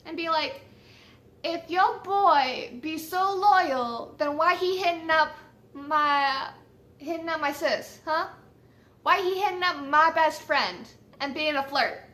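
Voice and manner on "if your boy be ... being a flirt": sassy confrontation. Pretend. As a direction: pretend sassy call-out. Imagined confrontational message to the girl.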